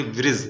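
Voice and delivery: ब्रिज said clearly as one syllable, brij; pronounced word. Shown as a demonstration. Teacher showing pupils how to say ब्रिज. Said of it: "उच्चार के साथ पढ़ेंगे".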